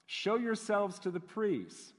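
measured Bible reading with deliberate pauses; unhurried scripture read aloud to a congregation. A narrator's reading. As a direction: read the passage solemnly, phrase by phrase. Reads Bible passage aloud.

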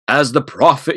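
grand, rising proclamation; solemn prophet voice. Pretend. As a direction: announce it like scripture. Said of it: "you can't even say it normally".

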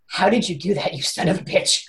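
low, quiet comic suspicion; mock accusation. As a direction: accuse him under your breath. Accusing husband of causing closure.

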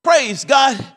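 high, loud mock praise shout; hammed-up hallelujah; excited praise. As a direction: cry out like a happy church member. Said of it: "Somebody says".

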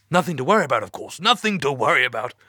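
high, nervous and over-reassuring; nervous reassurance. Acted. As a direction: brush it off, badly. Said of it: "He sounded nervous".

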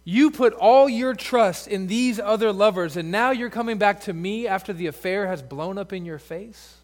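betrayed husband. Pretend. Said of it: "as if God is saying".

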